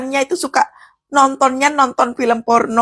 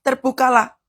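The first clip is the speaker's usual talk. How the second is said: quoted command. Retold or imitated.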